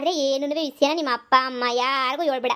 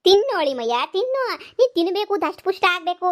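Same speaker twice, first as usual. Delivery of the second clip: coaxing; 4 semitones higher, 3 dB louder than usual. Acted. Mother-in-law coaxing son-in-law to eat.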